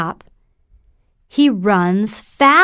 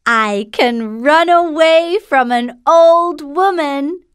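gingerbread man voice; 7 semitones higher than usual. Acted.

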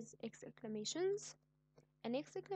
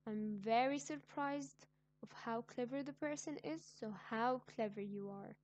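mock surprise. Shown as a demonstration. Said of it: "I'm showing my emotions".

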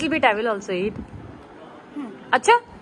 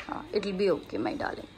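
soothing whisper; 6 semitones lower, 11 dB quieter than usual. Real, not acted. Mother soothing hurt child.

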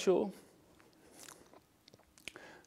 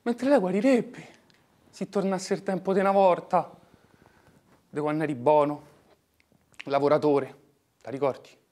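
pleading; 5 semitones higher, 9 dB louder than usual. Acted. Pleading with brother.

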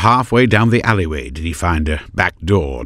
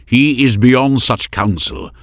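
raised, stern reply; stern warrior; 7 semitones higher, 5 dB louder than usual. A narrator's reading. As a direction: shut her idea down. Heron counters.

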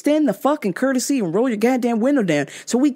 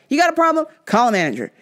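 yelled; 5 semitones higher, faster than usual. Retold or imitated. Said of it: "And I yelled it".

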